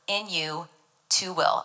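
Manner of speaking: "in you to will" set apart after the verse; pause, then place "to will" deliberately; stress on "in you to will". Shown as a demonstration. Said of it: "Emphasis on the words".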